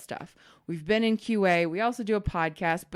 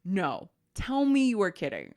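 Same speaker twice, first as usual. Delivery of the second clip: retold disbelief; slower than usual. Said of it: "he was just like".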